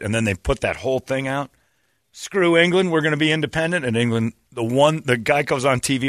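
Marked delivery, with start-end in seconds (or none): 2.1-3.8 high, defiant declaration; hammed-up rebel boast; mock defiance. Voicing Scots declaring independence, mock-defiant high voice.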